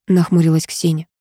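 ordinary delivery

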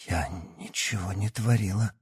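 frightened babble. A narrator's reading. Yana denying, frightened, to the doctor. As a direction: babble it in fear. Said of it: "испуганно пролепетала Давыдова".

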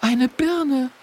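high, stunned exclamation; a girl in disbelief; astonished. A narrator's reading. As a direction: gasp out the sight. Stunned girl's voice.

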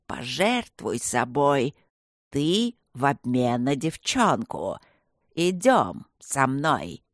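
медленно, нечеловечески, с угрозой; растягивать слова, как потустороннее зло; демонический голос зла. Acted. (зло насмехается над мальчиком, медленно и жутко)

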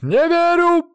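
high squealing cry; lady squeals she won't believe them; shrill squeal. Acted. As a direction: squeal it in disbelief. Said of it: "взвизгнула дама".

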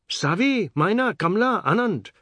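high, loud call of names. A narrator's reading. Shama calling her children away from Seth, calling out. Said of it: "Sharma called".

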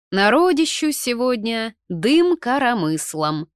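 slow, loud, high exclamation; calling out. A narrator's reading. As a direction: exclaim loudly over a busy house. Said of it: "крикнула мне немолодая женщина".

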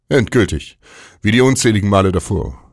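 mock the word Endgültig. with a high, sneering pitch. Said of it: "Spar dir deinen Hohn".

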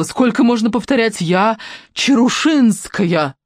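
indignant. A narrator's reading. Hysterical indignation.

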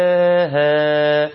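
يغشاها slow, final long a held two counts; slow recitation with held final vowel; even madd recitation. Shown as a demonstration. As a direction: sustain the last alif of يغشاها. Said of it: "والاتنين يكونوا متساويين".

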